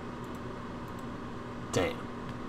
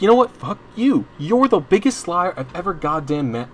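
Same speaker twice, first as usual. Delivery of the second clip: retold snapping; 6 semitones higher than usual. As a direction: blow up at the boss, then spit out the insult. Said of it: "I snapped".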